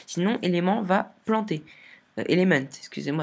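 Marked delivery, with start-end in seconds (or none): 2.3-2.7 French speaker's English-accented "Element"; "Element" pronounced the English way. Shown as a demonstration. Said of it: "avec l'accent anglais".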